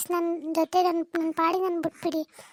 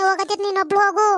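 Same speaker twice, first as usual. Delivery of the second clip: louder, sharp go-alone-then; mother-in-law snapping back louder at the daughter-in-law; angry retort; 2 semitones higher, 5 dB louder than usual. Acted.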